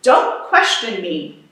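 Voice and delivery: a mild slow bark; understated stern command. Acted. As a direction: lay down the order, slow and firm. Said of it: "barked Mister Payne".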